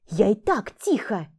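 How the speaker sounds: slow, defensive snap; snapping back. Acted. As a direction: bite back at her. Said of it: "огрызнулся Мак".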